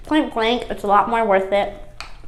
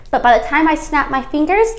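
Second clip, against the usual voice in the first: excited; 6 semitones higher, 5 dB louder than usual. Acted. Playful announcement before leaving.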